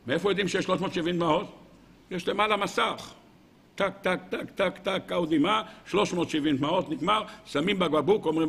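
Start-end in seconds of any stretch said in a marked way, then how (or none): 3.8-5.0 clipped "tak, tak" counter noises; imitated ticking. Rabbi miming a heavenly counter of tears, ticking. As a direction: tick them off softly, one by one.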